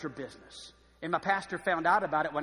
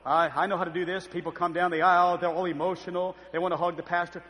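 lightly voiced, louder mock preacher; 5 dB louder than usual. Pastor explaining how he handles emotional people, preacher voice. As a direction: imitate a pastor's put-on pulpit tone. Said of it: "he put that preacher voice on".

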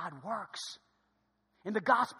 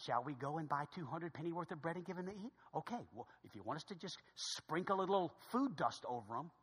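sarcastic; 6 dB quieter than usual. Acted. Disciples asking God about feeding five thousand, sarcastic. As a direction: offer it drily as an absurd plan.

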